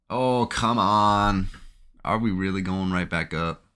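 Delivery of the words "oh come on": slow, drawn-out exasperated oh come on; frustrated groan. Real, not acted. Trader watching price reverse, slow louder frustration. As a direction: drag it out in disbelief.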